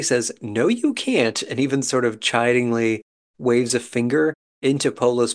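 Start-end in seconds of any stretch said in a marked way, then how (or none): 0.4-1.4 mock playful refusal. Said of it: "April playfully, but I think seriously".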